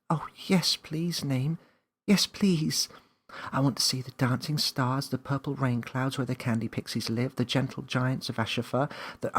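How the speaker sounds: put-on high eager girl voice; bubbling over with wishes; excited Millie. A narrator's reading.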